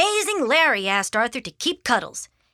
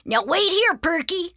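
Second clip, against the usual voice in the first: put-on high-pitched boy's instruction to a dog; child's firm little command; giving an order; 8 semitones higher than usual. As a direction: tell the dog to stay, voice raised in pitch. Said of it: "ordered Arthur".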